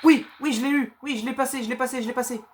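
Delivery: high, loud triumphant cheer; excited cheering. Real, not acted. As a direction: celebrate like you just won. Cheering after passing a level.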